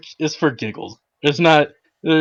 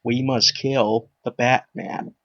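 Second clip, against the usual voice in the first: put-on slow, lower old Joker voice; Old Man Joker; 3 semitones lower, 5 dB quieter, slower than usual. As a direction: drag it out like an aged villain. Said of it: "sounds like Old Man Joker".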